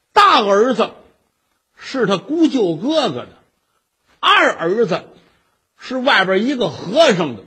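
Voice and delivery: emphatic gossip, hitting each new accusation; acted malicious tattling; cursing slander. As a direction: pile up the slander with relish. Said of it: "这么一诅咒人家".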